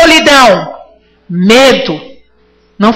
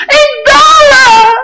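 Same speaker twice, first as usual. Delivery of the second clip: excited shout; 11 semitones higher, much slower than usual. Acted. Preacher mimicking a believer thrilled by dollars, shouting. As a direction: shout it like you just got paid in dollars.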